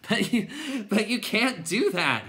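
high, loud protest; calling out. A narrator's reading. Bastian calling to the clowns, high loud protest. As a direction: call up to them, drawing it out. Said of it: "he called them".

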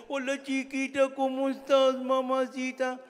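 put-on high, slow, syrupy baby-talk to a little girl; silly sweet-talking voice. Grandpa cooing on the phone to his granddaughter, silly sweet voice. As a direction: coo at her like a doting fool. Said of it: "y hablando como pendejo".

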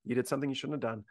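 soft, even and unhurried; calm teacher. Retold or imitated. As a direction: settle the student down quietly. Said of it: "better to stay calm and to look at the student".

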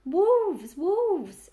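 put-on loud, high grumbling old ewe; hoarse, complaining. A narrator's reading. Old ewe shouting at a supposed wolf, hoarse and complaining. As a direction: cry it out high, falling on each word. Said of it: "a hoarse, complaining voice".

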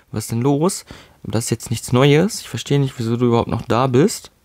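usual speaking voice

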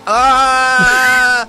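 talking with tongue out; tongue stuck out of mouth; tongue sticking out. Real, not acted. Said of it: "talk with my tongue out?".

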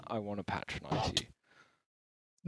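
low, slow, soft seductive imitation; mock sexual. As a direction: mimic a flirty purr, drawn out. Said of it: "did that sound so sexual".

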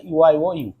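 "ইউ" broken into "আই ও", then rejoined; sound breakdown. Shown as a demonstration. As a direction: spell out the glide "আই ও" inside "ইউ". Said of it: "তুমি উচ্চারণ করছো". ("ইউ" ভেঙে "আই ও ইউ" ধ্বনি দেখানো)

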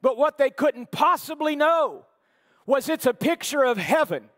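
loud, high, full-force preaching; fervent preaching. Acted. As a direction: preach it out to the congregation.

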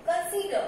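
consider ending in an open schwa, r silent; silent final r. Shown as a demonstration. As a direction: drop the last r of consider. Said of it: "last का यहाँ पे silent होता है".

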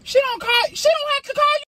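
snapping back in real irritation; getting mad. Real, not acted. Wife snaps at husband over the daddy name, irritated. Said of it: "Why are you getting mad?".

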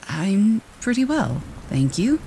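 put-on high, slow polite little girl's reply; politely. A narrator's reading. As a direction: answer sweetly and with good manners. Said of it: "replied Dorothy politely".

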